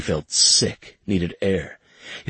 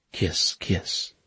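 breathy unvoiced kiss; soft whispered kiss; 7 dB quieter than usual. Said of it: "pressing kisses over each one".

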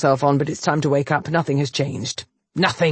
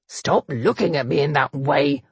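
mild growl; 2 semitones lower than usual. Acted. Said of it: "he growled".

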